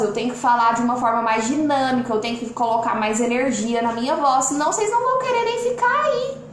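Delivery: lively live-stream host voice; energetic live voice. Shown as a demonstration. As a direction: put pressure and energy into the voice to hold the audience. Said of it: "coloco pressão na voz".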